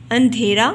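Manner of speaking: अंधेरा loud, said in one go; model pronunciation. Shown as a demonstration. Teacher models the word for learners, अंधेरा loud and unbroken. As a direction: say अंधेरा firmly without stretching it. Same word at normal pace.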